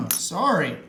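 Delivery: coughing, voice catching; choking. Real, not acted. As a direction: talk through a cough. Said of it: "I'm choking over here".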